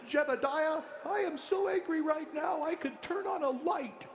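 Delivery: mock furious Amish farmer, high-pitched; angry Amish man. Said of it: "Even the Amish are pissed, like".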